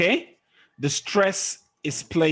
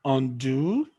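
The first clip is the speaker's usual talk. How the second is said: undo with DO drawn out and rising; light UN, lift DO in undo; prefix left unstressed. Shown as a demonstration. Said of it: "stress a prefix".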